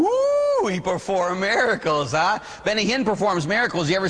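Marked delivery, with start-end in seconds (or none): 0.0-2.4 sarcastic ooh swooping much higher; mock impressed. Priest mocking a teen's answer, sarcastic high ooh. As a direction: tease them with a mocking squeal. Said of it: "I go".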